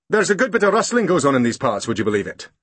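gossiping constable; london policeman. Acted. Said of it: "said the policeman".

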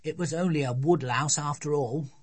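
little girl lightly mimicking Dad's excuse; child quoting parents. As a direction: parrot a dismissive parent in a child's voice. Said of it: "They'd only say".

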